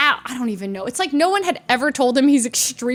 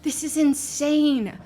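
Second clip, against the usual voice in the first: hushed, slow disbelief; stunned whisper; 5 dB quieter, slower than usual. Retold or imitated. Passenger sinking in her chair, stunned whisper. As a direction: whisper it while shrinking away.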